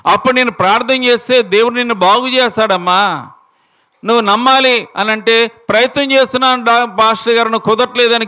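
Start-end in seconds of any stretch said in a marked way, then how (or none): 5.5-8.3 high, strained squeaky cry of a sick woman; imitated screech. Sick woman crying to the pastor she cannot believe, squeaky screech. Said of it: "కీచు స్వరంతో అరుస్తూ ఉందట".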